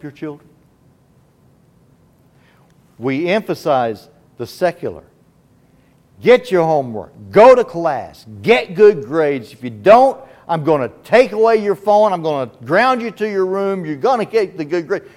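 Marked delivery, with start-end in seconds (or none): 6.2-13.9 mock parent scolding a child, higher and louder; nagging parent. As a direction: play the strict parent laying down rules. Preacher voices nagging parent.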